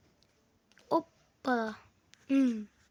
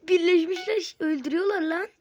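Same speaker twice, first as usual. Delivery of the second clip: 1 excited shout; 4 semitones higher, 7 dB louder than usual. Real, not acted. Excited at enemies fighting.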